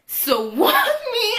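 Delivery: high laughing through words. Real, not acted. Recalling getting thrown by her hair, laughing. Laughing while telling beating.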